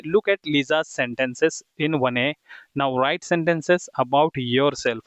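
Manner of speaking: slow, deliberate classroom reading; slow dictation. Shown as a demonstration. Teacher reading the exercise aloud to students, very slow and clear. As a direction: read it out word by word for learners. Teacher reads the book instruction.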